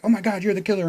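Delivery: high-pitched mock alarm; Gina. Reviewer acts out Gina accusing the book manager, mock alarm. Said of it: "Gina's like".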